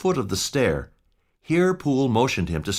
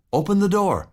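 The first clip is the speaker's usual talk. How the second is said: high, firm order; urgent butler command; 11 semitones higher, 3 dB louder than usual. Acted. Poole ordering the frightened servant inside, urgent command. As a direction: tell them to open up now.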